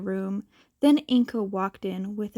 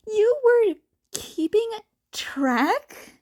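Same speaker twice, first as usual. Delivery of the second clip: high whispered tease; high, hushed teasing voice; 11 semitones higher, 4 dB louder, slower than usual. Acted. Teasing chat message.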